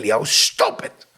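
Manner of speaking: slow low breathy warning; mock warning. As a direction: drag out a stern "stop it". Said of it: "She said".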